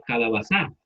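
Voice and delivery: calabaza said wrongly as calabaZÁ; stress on the last syllable. Shown as a demonstration. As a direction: put the weight on the final za of calabaza. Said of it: "lo pusiéramos al final".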